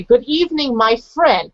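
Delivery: up-and-down English intonation; "Good evening, my friend" with a rising and falling tune; lively English tune. Shown as a demonstration. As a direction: swing the pitch up and down like a native speaker. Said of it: "in English I would say".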